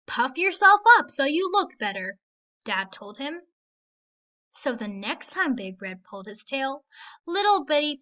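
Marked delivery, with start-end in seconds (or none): 0.1-2.2 dad's advice. Acted. Dad voiced in story.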